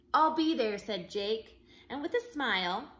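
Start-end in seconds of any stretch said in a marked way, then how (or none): 0.1-0.8 higher, louder eager yes; excited boy. Acted. Jake answers the official, loud excited kid. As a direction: burst out keen to go.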